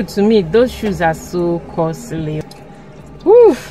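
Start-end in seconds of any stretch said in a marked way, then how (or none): 3.2-3.6 loud high woo; excited whoop. Real, not acted. Excited exclamation.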